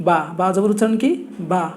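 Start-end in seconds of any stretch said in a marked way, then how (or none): 0.1-0.2 বা said with an open long aa; demonstrated syllable. Shown as a demonstration. Teacher showing learners how zabar sounds, demonstrating বা.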